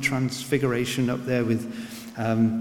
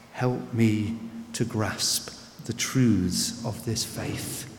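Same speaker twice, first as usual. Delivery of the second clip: soft prayer; 4 semitones lower than usual. Shown as a demonstration. Preacher modelling a prayer for the doubting listener, softly. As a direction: pray it gently, as if kneeling. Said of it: "go to God again and say".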